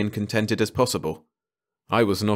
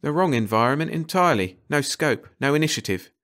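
lightly voiced, higher-pitched enthusiast; emphatic ecologist; 6 semitones higher than usual. Carter backing up Ranson, emphatic. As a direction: raise the pitch and declare each point.

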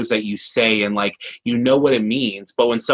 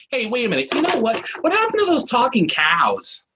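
sudden realization; 12 semitones higher than usual. Real, not acted. Sudden realization about talking cows.

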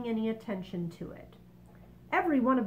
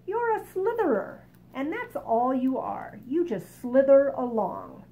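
mocking centipede; 5 semitones higher, 7 dB louder than usual. Centipede mocks earthworm.

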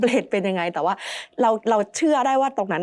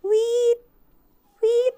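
very high, sustained "weeet" whistle-cry; imitated ghostly shriek; 3 dB louder than usual. Telling the host of the preta's sound, imitated high shriek. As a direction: mimic a piercing wail, held on one note. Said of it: "สักพักก็เริ่มมีเสียงแบบ".

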